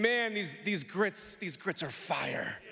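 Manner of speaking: a lightly voiced pleased grandmother; approving grandma. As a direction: savor it like a satisfied elder. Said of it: "It can mean".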